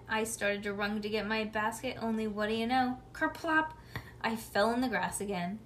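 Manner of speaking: plain reading voice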